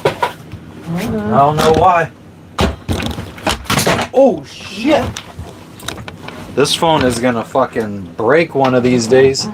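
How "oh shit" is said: sudden high startled cry. Real, not acted. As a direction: caught off guard as something slips. Phone slipping, sudden exclamation.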